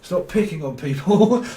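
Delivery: high, slow, pleading Michael Jackson voice; Michael Jackson impression. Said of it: "Turn into Michael Jackson".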